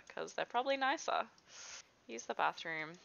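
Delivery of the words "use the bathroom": whisper. Real, not acted. Whispered repeat.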